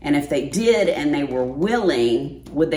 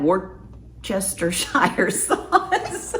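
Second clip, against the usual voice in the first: very slow, breaking into a laugh mid-word; laughing through it; 3 semitones higher, much slower than usual. Real, not acted. Vlogger cracking up while trying the sauce name. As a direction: giggle your way through the word. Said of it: "Why do I slow down when I say that".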